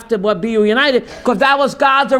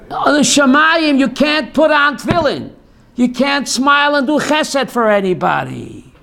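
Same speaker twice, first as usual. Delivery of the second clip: emphatic outburst; 3 semitones higher than usual. Real, not acted. Emphatic teaching point.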